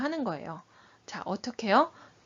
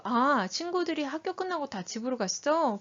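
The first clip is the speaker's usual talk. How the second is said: interested question; 4 semitones higher than usual. Shown as a demonstration. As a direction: reflect the child's words as a caring question. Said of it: "관심 어린 질문 먼저 하는 거".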